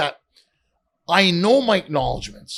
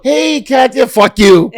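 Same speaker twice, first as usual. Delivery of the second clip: loud mock brush-off, pitch jumping up; playfully shouted insult; 9 semitones higher, 10 dB louder, slower than usual. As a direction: bark it out like a snubbing star. Imagined celebrity snub, shouted.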